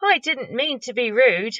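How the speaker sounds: put-on a little girl saying sorry; a touch of a sorry young girl; Sophie voice.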